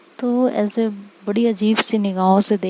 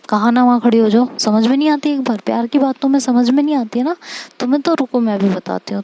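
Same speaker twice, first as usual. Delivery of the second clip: 1 angry scolding; 3 semitones higher, 3 dB louder, faster than usual. Acted. Angry girlfriend threatens with stick.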